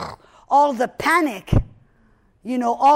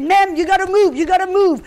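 1 urgent order; 6 semitones higher, 5 dB louder, faster than usual. Retold or imitated. Security officer ordering evacuation.

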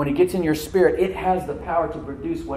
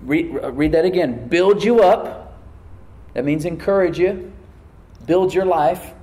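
loud scripture proclamation, key phrases stretched; projected, punchy preacher's voice; emphatic preaching; 4 dB louder than usual. Real, not acted. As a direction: build in force as you preach the promise. Preaches the verse with rising force.

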